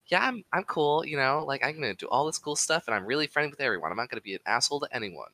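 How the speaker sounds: quick, casual put-on friendliness; overly friendly. Imitating an actress doing damage control, mock friendly. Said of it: "she's coming off very friendly".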